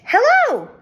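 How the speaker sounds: high squeaky hamster hello; squeaked hello. Acted. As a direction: pipe it like a tiny hamster. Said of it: "I squeaked".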